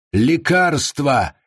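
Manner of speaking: slow drawn-out crowd roar. Acted. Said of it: "взревела толпа".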